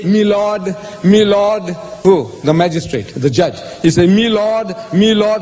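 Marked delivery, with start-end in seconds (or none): 0.0-1.8 "Me lord" with "my" reduced to "me"; courtroom "Me lord". Acted. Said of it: "in an English court, they say". 4.1-5.4 "Me lord" with "my" reduced to "me"; courtroom "Me lord". Acted. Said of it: "they say".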